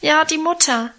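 high, wailing-toned agreement; plaintive lament. A narrator's reading. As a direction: lament it like a grieving child. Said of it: "klagte Lenchen".

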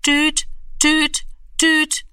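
high, even beeping tone; dial tone beeps. A narrator's reading. Freizeichen im Hörer. (hoher Telefon-Piepton)

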